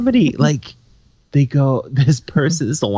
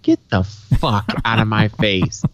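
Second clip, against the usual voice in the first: tag; 3 semitones lower, slower than usual. Retold or imitated. Retelling his retort to heckler.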